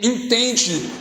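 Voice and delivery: rousing sermon delivery, building and falling; preaching. Acted. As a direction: preach it out to the faithful. Preaching to the congregation.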